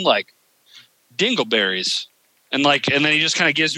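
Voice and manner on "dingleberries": God's deadpan reply. Retold or imitated. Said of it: "returns the same energy and tone".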